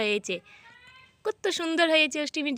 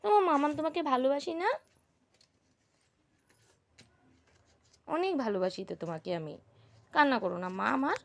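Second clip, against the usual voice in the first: tender coaxing; 2 semitones lower than usual. Real, not acted. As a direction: coax her out kindly. Mother coaxing upset daughter.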